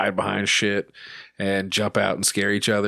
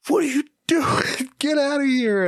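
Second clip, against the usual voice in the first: imitating the ref much higher, with a laugh; retelling the ref, laughing, in a high falsetto; mock ref voice. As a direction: squeak the ref's words in a silly high voice. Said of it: "the fucking refs was like".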